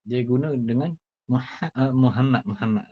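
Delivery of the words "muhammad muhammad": Muhammad with the wrong light h, muhama; wrong pronunciation. Shown as a demonstration. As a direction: say Muhammad carelessly. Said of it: "Salah je lah".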